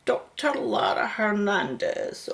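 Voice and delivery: reading a name to herself under her breath; whispered reading. Acted. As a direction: murmur it as you find it. Reading a contact name aloud.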